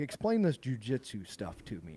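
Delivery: mocking, taunting delivery. Retelling how a comedian on a podcast asked about jujitsu: imitating a mocking tone. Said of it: "he was kinda mocking him".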